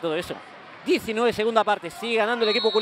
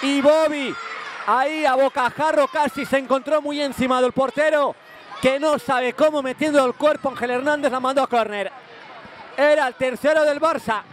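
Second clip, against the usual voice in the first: raised, urgent play-by-play; excited commentary; 3 semitones higher than usual. Real, not acted. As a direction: relive the near miss. Near miss replay, raised voice.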